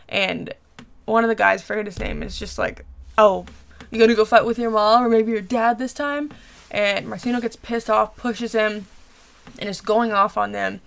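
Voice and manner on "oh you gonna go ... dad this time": louder retold jeer; mock taunt. One of the guys goading Martino about fights, mock taunting. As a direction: needle him with a loud, goading question.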